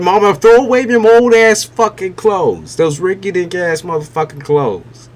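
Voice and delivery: put-on high, loud teasing child nagging mama; mock kid voice. Kids telling their mother to toss old clothes, mock high nagging. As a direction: play the kid telling mom off. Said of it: "They be like".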